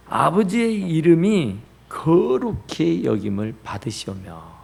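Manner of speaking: slow, measured prayer line; measured scripture recital; slow recitation. Shown as a demonstration. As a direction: recite it slowly, drawing out 거룩히.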